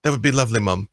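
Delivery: put-on the boy nervously asks his guardian to go fishing. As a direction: trip over the words like a shy ward.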